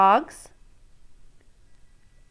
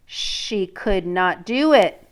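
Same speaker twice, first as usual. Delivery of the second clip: reading a picture book to a class; storybook read-aloud voice; story narration; slower than usual. Acted. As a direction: let the princess's dread come through. Teacher reads story aloud.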